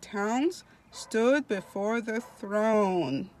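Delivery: slow, stretched, emphatic reading aloud; devotional reading. Acted. Preacher reading of heaven to online listeners, slow devotional reading. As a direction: draw out key words with rising swells. Reads scripture again.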